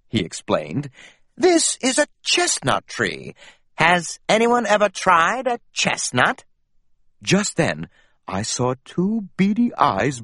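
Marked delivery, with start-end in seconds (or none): 1.3-6.4 gentle guide voice. Acted. Gentle Mouse explains plants.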